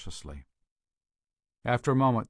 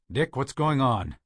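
frantic; 4 semitones higher, 6 dB louder than usual. Acted. Frantic man calls to partner.

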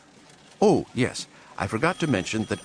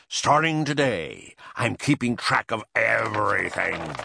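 shouting; 3 semitones higher than usual. Acted. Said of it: "he shouted".

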